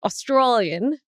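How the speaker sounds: "Australian" said as "ɑstɹoliən", with the pitch rising up; trying out "Australian" in an Aussie accent; bad Australian accent. Shown as a demonstration. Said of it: "No, this is bad".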